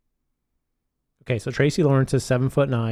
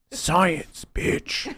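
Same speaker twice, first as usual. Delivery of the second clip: higher-pitched catchphrase impression; Jesse Pinkman quote; 4 semitones higher than usual. Co-host quoting a TV character about science, mock impression. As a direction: toss out the catchphrase in his voice. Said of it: "In the words of Jesse Pinkman".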